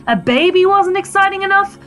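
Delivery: high, held-up pitch; bitter accusation. Acted. Wife accusing husband over their baby, bitterly high. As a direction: list the grievance, pitch kept high.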